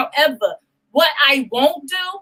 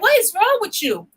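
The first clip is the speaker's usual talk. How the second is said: put-on girlfriend asking; 9 semitones higher than usual. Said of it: "you're like".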